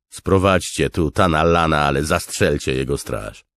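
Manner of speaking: loud command, starting high; giving an order. A narrator's reading. Commander tells soldiers to fetch the prisoner, commanding. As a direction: order the men firmly. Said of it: "polecił Dalinar".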